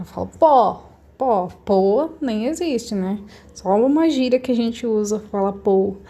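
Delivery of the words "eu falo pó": pó with open O, ɔ. Shown as a demonstration. Teacher confirms the right vowel, open pó. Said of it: "eu falo mais agudamente".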